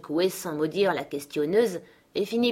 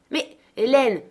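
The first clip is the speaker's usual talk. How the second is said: higher, louder shocked appeal; astonished cry; 6 semitones higher, 6 dB louder than usual. A narrator's reading. Girl appeals to her nurse, astonished. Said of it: "s'écria-t-elle ... immobile d'étonnement".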